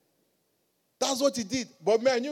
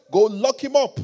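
firm, raised military order; stern, strong voice; 2 semitones higher, 6 dB louder than usual. Retold or imitated. Commandant to his men about the orderly, stern command. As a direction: give a curt order, louder. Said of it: "With a stern face, strong voice".

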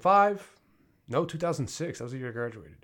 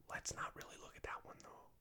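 very soft, dropping into a whisper; hushed, hurried aside; 22 dB quieter than usual. Acted. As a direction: sweep it aside under your breath. Hushed aside dodging an awkward fact.

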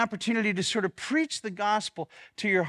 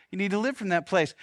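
faster echo, live still stressed; quick repeat; faster than usual. Shown as a demonstration. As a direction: hurry the repeat as an afterthought.

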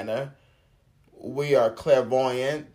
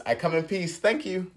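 higher, friendly disarming offer; peaceful thank you; 7 semitones higher than usual. Retold or imitated. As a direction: say it like a truce to a grumpy server. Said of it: "That's what my thank you was".

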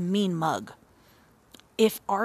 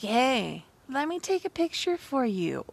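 pushy helpful stranger voice, pitched up; mock eager stranger; 4 semitones higher than usual. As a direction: play the overeager passerby offering help. Stranger offering to take picture.

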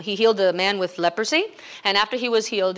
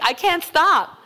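high, fast, louder whimpering mock voice; imitating Freddie crying; 8 semitones higher, 4 dB louder, slower than usual. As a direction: rush it out like a tough guy who can't stop crying. Pastor voices crying young man.

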